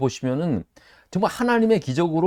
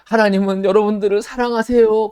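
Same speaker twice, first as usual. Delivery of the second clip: tearful preacher quote; 8 semitones higher, 6 dB louder than usual. Retold or imitated. Preacher voiced tearfully in memory.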